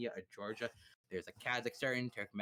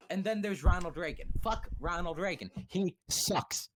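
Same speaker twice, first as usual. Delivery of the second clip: mock rant; 4 semitones higher, 5 dB louder than usual. Real, not acted. Ranting against Ronald Reagan.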